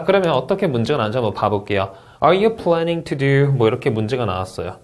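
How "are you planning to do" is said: slow rising yes-no question; slow English question, rising at the end. Shown as a demonstration. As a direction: read it slowly, lift the end. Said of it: "Do something 하고 올려읽죠".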